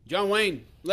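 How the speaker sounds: booming ring announcer call. Acted. Announcing a name again, bigger.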